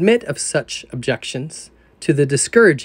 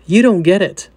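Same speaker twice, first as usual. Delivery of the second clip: frustrated protest; 3 semitones higher, 4 dB louder than usual. Retold or imitated. Sinner protesting to Jesus.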